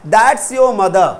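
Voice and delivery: That's your mother, very slow; drawn out for the class to copy; slow model sentence. Shown as a demonstration. (बहुत धीरे, model वाक्य)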